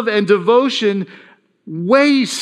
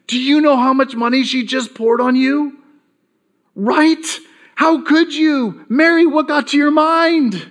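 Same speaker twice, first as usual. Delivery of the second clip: higher, incredulous reproach; disciples scolding; 4 semitones higher than usual. Acted. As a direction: scold Mary as a calculating disciple. Disciples scolding Mary over cost.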